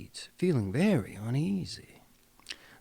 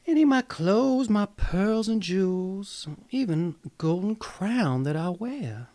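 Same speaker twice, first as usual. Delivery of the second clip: much higher and louder, rushing to offer everything; eager princess; 5 semitones higher, 4 dB louder than usual. Acted. Princess bargaining with the frog, eager and higher. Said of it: "she said".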